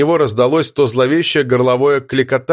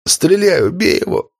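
a dying man's strained plea; weakening voice; 6 semitones higher than usual. Acted. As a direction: plead with fading strength. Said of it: "попросил слабеющим голосом Данила". (слабеющий умоляющий голос)

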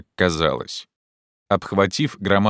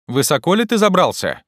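high, stretched-out call; 11 semitones higher, 4 dB louder than usual. Acted. Legrand asks climber how high, calling up. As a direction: send the question far up a tree.

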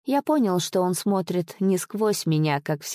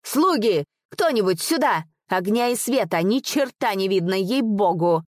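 shouting for servants; 3 semitones higher than usual. Acted. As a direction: yell for the servants in the dark. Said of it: "закричал".

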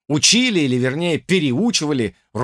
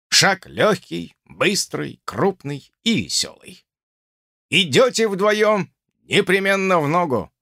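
raised, firm drill rules; stern instructor; 4 semitones higher than usual. Acted. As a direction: lay down the rules like an officer.

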